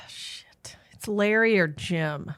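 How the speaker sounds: whispered oath, then the names softly; under her breath, caught out. Real, not acted. Whispering about the wrong guess.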